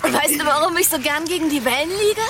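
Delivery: bubbling over with happiness on the beach; joyful, giddy. Acted. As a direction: pregnant wife teasing her husband, giddy and bright. Happy wife at the beach.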